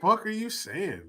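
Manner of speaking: confused and incredulous, the pitch climbing up to a squeak; baffled, rising to a high squeak. Retold or imitated. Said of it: "I'm just like".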